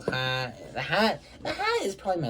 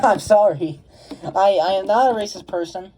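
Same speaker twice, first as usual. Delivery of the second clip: laughing apology; 7 semitones higher, 9 dB louder than usual. Real, not acted. Laughing apology over racist-sounding video.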